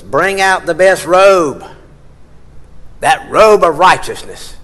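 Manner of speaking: loud, slow and ringing orders of joy; joyful commands. Acted. Father calling his servants for the feast, loud and joyful. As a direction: call it out like a feast is starting.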